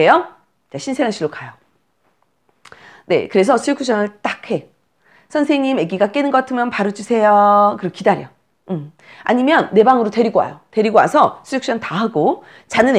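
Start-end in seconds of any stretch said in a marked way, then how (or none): 5.3-7.8 mother requesting. Pretend. Acted request to nursery nurse.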